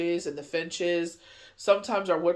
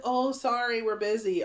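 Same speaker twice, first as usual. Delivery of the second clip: higher, lightly mocking brush-off; mock excuse; 5 semitones higher than usual. Mimicking the shop's excuse about late orders, higher mock brush-off. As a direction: parrot their lame excuse a bit higher.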